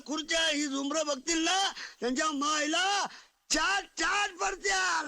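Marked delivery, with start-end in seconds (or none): 3.5-5.1 booming, slowed village boast; loud boast. Acted. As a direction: crow it out loud to the room. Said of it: "केवढ्या मोठ्याने बोलते". (मोठ्याने बढाई)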